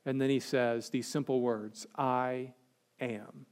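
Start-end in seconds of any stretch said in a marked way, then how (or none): 2.0-3.5 softly, almost under the breath; hushed. Acted. Preacher quoting Jesus to the guards, hushed and soft. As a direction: let the words fall to a near hush.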